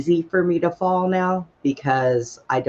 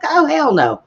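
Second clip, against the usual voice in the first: indignant outburst; 3 semitones higher, 5 dB louder than usual. Retold or imitated. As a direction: refuse the doctor flat out. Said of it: "I'm like".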